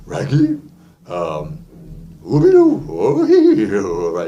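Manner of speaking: dopey throaty cartoon dog; Scooby-Doo. Shown as a demonstration. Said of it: "Or you do".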